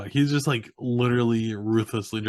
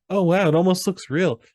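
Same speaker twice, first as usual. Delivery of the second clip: mock amazed; 8 semitones higher, 6 dB louder than usual. Alan quoted firing the gun.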